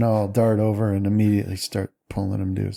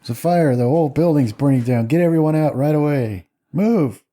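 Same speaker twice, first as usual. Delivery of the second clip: raised, commanding evacuation call; urgent alarm; 4 semitones higher, 3 dB louder than usual. Acted. Doctor orders nurse to clear the building, acted urgent alarm. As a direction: order everyone out, pitch climbing to the last word.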